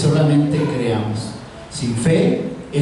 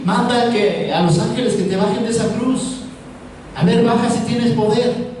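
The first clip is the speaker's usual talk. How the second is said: imitated taunt, pitched up; mocking soldiers; 5 semitones higher than usual. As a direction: challenge him like a jeering soldier, without shouting. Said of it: "varios de los soldados burlándose". (burla imitada de soldados, en tono más agudo)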